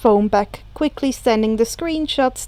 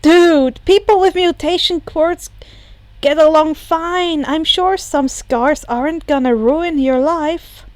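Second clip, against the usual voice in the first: higher, louder, breezy; casual young hero; 4 semitones higher, 3 dB louder than usual. Acted. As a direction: brush it off casually. Izuku high, loud, casual.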